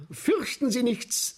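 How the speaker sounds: calm the crowd from the stage; calling out to calm the audience; reassuring call. Acted. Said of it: "sage ich".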